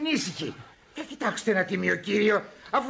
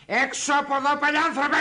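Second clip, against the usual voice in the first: raised, furious order to leave; outraged dismissal; 4 semitones higher than usual. Acted. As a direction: throw the scoundrel out. Outraged husband throws him out. (έξαλλη διαταγή να φύγει)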